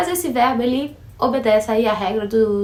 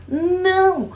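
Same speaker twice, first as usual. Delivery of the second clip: emphatic no; 8 semitones higher than usual. Real, not acted. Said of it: "correcting the error".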